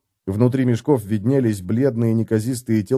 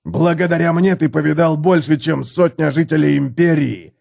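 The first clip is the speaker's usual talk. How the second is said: roar; 4 semitones higher than usual. A narrator's reading. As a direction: roar it at the man. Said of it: "взревел Готрек". (Готрек ревёт на Феликса)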